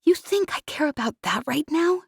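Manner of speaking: exasperated retort; angry Jez. Acted. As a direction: snap back at him. Angry woman snaps at him.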